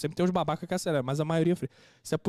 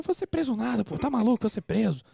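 higher, indignant scoff, retold; dismissive retort; 6 semitones higher than usual. Husband answering his crying wife about jail, retold as an indignant scoff. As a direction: brush the warning off indignantly.

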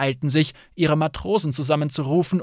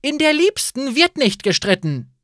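higher, louder firm rule; scolding; 11 semitones higher, 5 dB louder than usual. Acted. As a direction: lay down the house rule. Innkeeper scolds guests.

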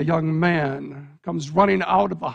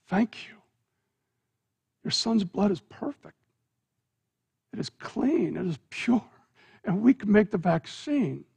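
softer, gentle thanks; an old doctor quietly thanking; grateful and hushed; 3 dB quieter than usual. Acted. Old doctor thanks the parent, softer and tender.

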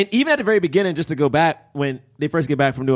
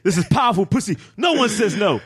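bold seductress; 4 semitones higher than usual. Retold or imitated.

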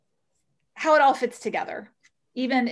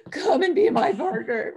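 high, bright and louder, bubbling over; much higher, eager call to join; excited invitation; 8 semitones higher, 4 dB louder than usual. Retold or imitated. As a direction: invite him like you can't contain your joy. Eagerly inviting the older man.

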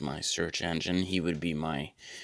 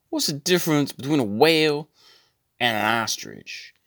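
higher, louder joke-telling voice; Samuel L Jackson impression; 9 semitones higher, 6 dB louder than usual. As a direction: pitch the riddle up like Samuel L Jackson. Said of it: "he'd be like".

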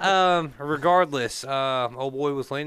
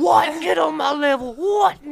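playful shout; 9 dB louder, slower than usual. Real, not acted. Bragging to friends about his dad, a playful high shout. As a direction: shout it out high and loud, teasing.

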